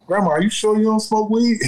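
high-pitched, breaking into laughter; mock-incredulous, laughter taking over at the end; amused retold question. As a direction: quote it teasingly, about to crack up. Amused retelling, bursts into laughter.

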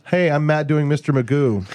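lightly voiced cartoon character; Mister Magoo impression. Teasing a friend about his work voices, cartoon impression. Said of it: "Did it sound like this?".

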